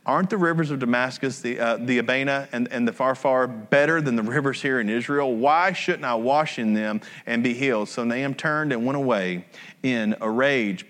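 calm scripture read. Acted. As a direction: read the passage evenly to the congregation. Reading scripture aloud.

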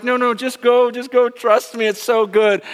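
high, bright push to go for it; eager urging. Retold or imitated. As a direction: cheer her on to jump in. Urging scared daughter to swim.

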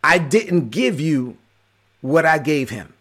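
slow, measured pronouncement with a pause midway; voice of the Holy Spirit. Retold or imitated. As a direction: speak as God, unhurried and weighty. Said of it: "And the Holy Spirit was like".

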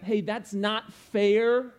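hammed-up cry of unfairness; mock complaint. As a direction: play the wronged one crying foul. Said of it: "just another way to put the word injustice".

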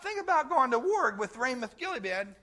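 a hint of a scheming buddy inviting; casual Ahab. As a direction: Ahab sweet-talking Jehoshaphat at the cookout. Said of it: "he's like".

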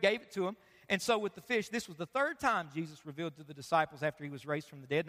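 measured Bible reading to the congregation; scripture reading. Acted. Pastor reading John to church, measured scripture reading. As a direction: read the passage steadily.

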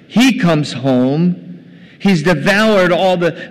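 loud, slow accusation; aggrieved son, punching each word; angry elder son. Retold or imitated. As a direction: spell out the brother's offence with acted indignation. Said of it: "He's angry".

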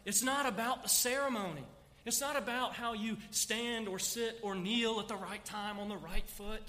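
preaching emphasis. Real, not acted. Preaching climax.

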